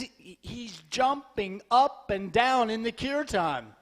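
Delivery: JUMPING and UP punched apart; insistent repeat, stress on "up"; emphatic explaining. Retold or imitated. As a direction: spell it out, hitting "jumping" and "up". Devotee repeats it to disbelieving listener.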